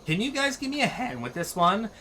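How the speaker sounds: lightly voiced Valley Girl heroine; chirpy teen asking for help. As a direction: read her lines as a Valley Girl. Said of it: "speaking in this freaking accent".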